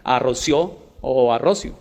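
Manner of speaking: "Rocio" with the stress moved off the í, slowly; two contrasting misplaced stresses on "Rocio"; shifted stress. Shown as a demonstration. Host contrasting accent marks, slow shifted stresses on "Rocio". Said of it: "no es lo mismo Rocío que le marquen la tilde".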